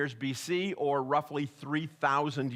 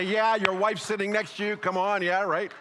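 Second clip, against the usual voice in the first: prompting the crowd; 4 semitones higher, 3 dB louder than usual. Shown as a demonstration. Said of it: "That's your chance to say".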